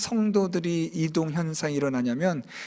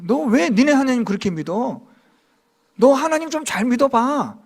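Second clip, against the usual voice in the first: louder scolding outsider's voice, pitched up; mock rebuke; 4 semitones higher, 5 dB louder than usual. Unbelievers rebuking Jonah for his faith, loud scolding. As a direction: scold him like an indignant unbeliever. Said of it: "지금 그렇게 책망하는 거예요".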